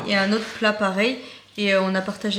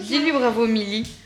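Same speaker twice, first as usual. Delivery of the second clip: speaking through hiccups; words broken by a hiccup. Real, not acted. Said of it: "Pardon, j'ai le hoquet". (avec le hoquet)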